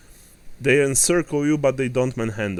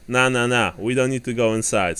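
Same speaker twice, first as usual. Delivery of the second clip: dock worker; 3 semitones higher, 4 dB louder than usual. Acted. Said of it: "says the leading dock worker".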